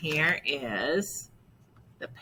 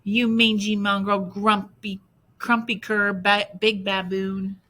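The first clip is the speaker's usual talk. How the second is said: loud, higher string of insults; yelled insults; 4 semitones higher, 7 dB louder than usual. Acted. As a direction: hurl names while fleeing. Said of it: "Nothing she yelled".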